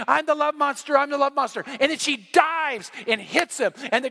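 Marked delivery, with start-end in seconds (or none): 0.1-1.6 retold child's scream. Girl running at dad, mock screaming. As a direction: imitate an excited kid shrieking, toned down. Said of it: "she's screaming".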